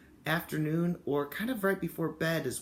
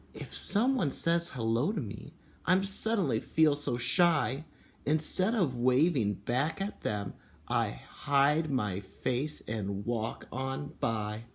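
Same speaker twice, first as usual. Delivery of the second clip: slow storybook read with a hint of shyness; a touch of shy in a slow read-aloud; reading to children; slower than usual. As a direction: read it slowly, lightly shy. Reads picture book aloud.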